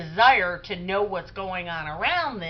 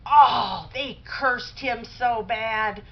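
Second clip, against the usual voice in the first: gushing excitement; 2 semitones higher, 4 dB louder, much slower than usual. Retold or imitated. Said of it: "you could just see her face light up".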